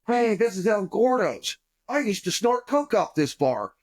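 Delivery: high-pitched mock drunken announcement; drunk outburst. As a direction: call it out high, like an excited drunk. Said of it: "I'm really, really drunk".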